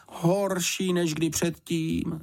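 startled motherly housekeeper; blurted in alarm. A narrator's reading. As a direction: gasp it out, startled and high.

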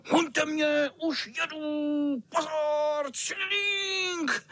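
vysoký kočičí hlas, škádlivě; dráždit kluky jako zlomyslný kocour; rozjívený kocour. Acted. Kocour provokuje na tříkolce. (zlomyslný kocour škádlí kluky)

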